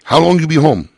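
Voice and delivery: lightly put-on Asian American accent, broken English. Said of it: "Asian American accent".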